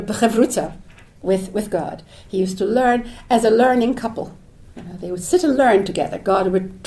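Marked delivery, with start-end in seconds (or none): 0.0-0.8 b'chavruta said the Hebrew way, guttural ch; Hebrew word. Shown as a demonstration. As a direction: pronounce b'chavruta as in Hebrew, ch from the throat. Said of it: "as we say in Hebrew".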